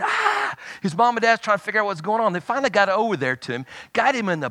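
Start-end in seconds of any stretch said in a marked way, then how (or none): 0.0-0.5 short high-pitched "ah" without full volume; mock scream, pitched way up; imitated scream. Retelling a skier's panic, high mock scream. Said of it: "start screaming".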